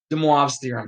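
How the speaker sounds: American-accented "De Moivre's theorem"; a decent pronunciation in an American accent. Shown as a demonstration. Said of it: "like, American accent, decent pronunciation".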